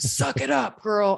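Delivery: slow, tough, no-nonsense dismissive tone. Retelling what a tough husband says to a crying daughter: imitating a tough husband. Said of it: "my husband, who's all, like, tough, he'll be like".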